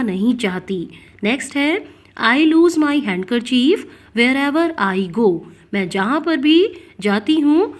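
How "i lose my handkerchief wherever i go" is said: very slow, clear dictation pace; spoken like a teacher dictating; slow example reading. Shown as a demonstration. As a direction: read each word out slowly for the class.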